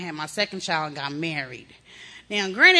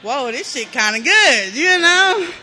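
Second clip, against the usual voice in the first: loud, high, laughing through it; giddy laughing high; laughing delight; 5 semitones higher, 7 dB louder, slower than usual. Retold or imitated. Woman enjoying first high, loud laughing delight. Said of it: "But then I got happy".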